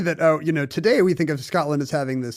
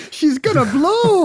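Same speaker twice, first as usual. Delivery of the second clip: higher, louder Scots engineer warning; the ship is about to blow, Scots accent; Star Trek Scottish engineer; 12 semitones higher, 6 dB louder than usual. Retold or imitated. Trading Star Trek engineer lines, Scottish accent. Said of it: "it was Star Trek derived".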